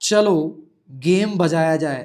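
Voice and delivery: slow, loud vlogger greeting; hammed-up gamer streamer hello; lightly voiced gaming YouTuber; mock YouTuber intro. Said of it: "ऐसा तो नहीं लिख सकते हैं".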